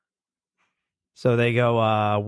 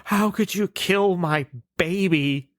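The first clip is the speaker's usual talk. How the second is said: higher, wailing caveman voice; grieving caveman; 7 semitones higher than usual. Retold or imitated. Caveman mourning his doused fire, in a higher, mock-grieving wail. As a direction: cry out like a caveman who lost his child. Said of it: "He goes".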